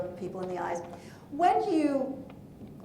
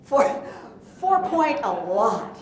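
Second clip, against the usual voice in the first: louder volume demo; 7 dB louder, slower than usual. Shown as a demonstration. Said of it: "what's a big number".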